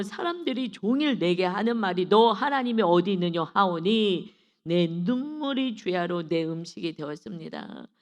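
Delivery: forceful, measured verse reading; scripture recitation. Acted. Preacher reading the psalmist's lament to the congregation, declamatory. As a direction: declaim the verse, swelling in the middle. Reads verse three aloud.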